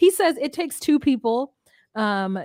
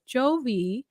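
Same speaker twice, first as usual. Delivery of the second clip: 囁くように名前を呼ぶ; soft unvoiced hiss of his name; whisper; 4 dB quieter than usual. Yara whispering near baby.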